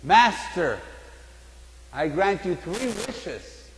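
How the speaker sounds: grand, slow genie granting wishes; booming "Master" then a slow, stately offer; a lightly voiced, majestic genie. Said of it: "And Genie says".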